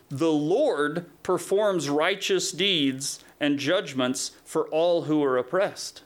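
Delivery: slow, weighty reading of the verse; slow, deliberate verse reading; slow scripture reading. Shown as a demonstration. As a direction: lay out each word slowly, like reading from the pulpit. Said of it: "scripture read then repeated".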